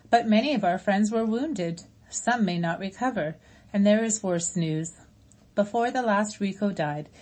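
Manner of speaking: gentle robot voice. Acted. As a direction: speak as a caring robot to old friends. Roz gives grave news.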